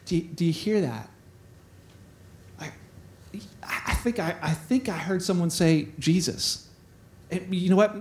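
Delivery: low, soft, halting wonder; hushed listening. Acted. Blind beggar tells his buddy what he heard, hushed. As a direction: keep it down while straining to hear.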